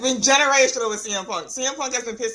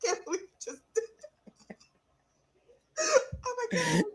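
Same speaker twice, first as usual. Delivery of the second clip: laughing disbelief; 5 semitones higher, faster than usual. Real, not acted. Laughing at the jab.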